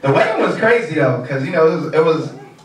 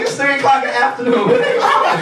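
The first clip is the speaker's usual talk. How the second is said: incredulous; 8 semitones higher than usual. Retold or imitated. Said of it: "I'm like".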